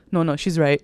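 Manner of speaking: low, soft, meek imitation; scared backing down. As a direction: give in quietly, as if afraid of her. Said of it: "he's so scared of her".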